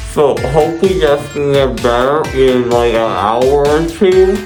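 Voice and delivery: numb jaw, gauze in mouth; muffled. Real, not acted. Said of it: "this is the way I have to speak now".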